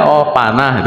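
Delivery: chuckling through the words; a real laugh breaking into the line. Real, not acted. Narrator laughs at the arrow trick. (sambil tertawa geli)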